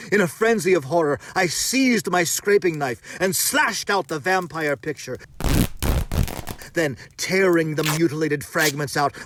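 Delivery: loud, high, racing climax; frantic horror. A narrator's reading. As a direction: tell it like you're fleeing death itself.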